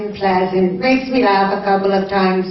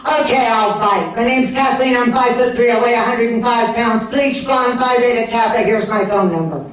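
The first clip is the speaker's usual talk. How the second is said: sweetly rattled-off personal ad; sweet phone message; faster than usual. Retold or imitated. Woman leaving a message for a personal ad, sweet. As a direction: list your selling points sweetly. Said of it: "just this sweet".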